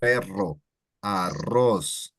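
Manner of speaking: perro and arroz with long trilled R's; rolled R. Shown as a demonstration. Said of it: "it elongates quite a bit".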